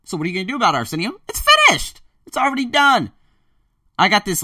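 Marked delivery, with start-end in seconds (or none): 1.3-3.1 much higher, loud victory cry; triumphant. Real, not acted. Announcing he's quitting the job, a high triumphant burst. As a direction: declare it done with a burst.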